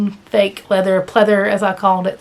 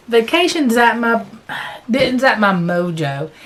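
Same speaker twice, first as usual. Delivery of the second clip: hiccups; 2 semitones higher than usual. Real, not acted. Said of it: "I've got the hiccups".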